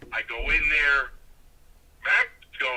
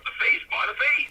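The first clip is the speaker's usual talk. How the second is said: quoting Doc; 9 semitones higher than usual. Retold or imitated. Doc directing him in match.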